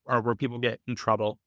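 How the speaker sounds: ordinary talk, nothing marked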